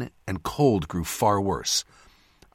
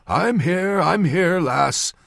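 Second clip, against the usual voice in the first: put-on raised old northern man's voice; 10 semitones higher, 4 dB louder, slower than usual. A narrator's reading. Old surgeon answering the lass's shout, raised old voice. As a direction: answer as a hurrying old man, pitched up. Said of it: "an old man's voice said".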